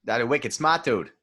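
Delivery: mock Boston accent, dropped r in smart; wicked smart Boston dude voice. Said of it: "you went Bostonian first".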